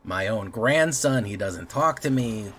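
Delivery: a light touch of a nagging grandma, slow on the first line; guilt-tripping grandmother. Acted. Streamer mimics grandma guilt-tripping her grandson, lightly voiced. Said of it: "If I sound like a, like a grandmother".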